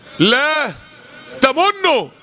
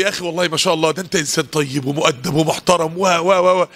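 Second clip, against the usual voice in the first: gentle praise; 5 semitones lower than usual. Acted. Acts gentle adviser's praise.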